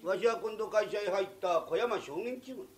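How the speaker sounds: booming finish; an applicant talking like the boss; pompous boss type. Acted. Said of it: "あれのが俺より社長らしいじゃないか". (社長気取りの偉そうな口調)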